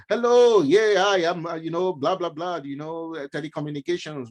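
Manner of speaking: high, loud mock Indian telemarketer accent that fades by the end; lightly done Indian accent on a scam call. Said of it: "with an Indian accent".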